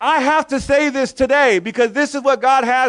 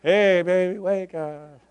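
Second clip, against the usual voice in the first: alarm clock again, laughing; 5 semitones lower, 6 dB quieter, slower than usual. Retold or imitated. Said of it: "I had this alarm clock that said".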